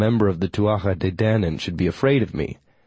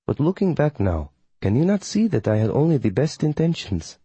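higher-pitched, formal coven witch; formal witch, defensive; 3 semitones higher than usual. Acted. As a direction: plead good intentions with dignified formality. Voices witch Melina defending herself.

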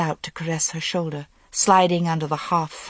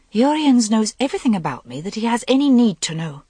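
steady; 6 semitones higher, 4 dB louder than usual. A narrator's reading. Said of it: "her voice was so steady".

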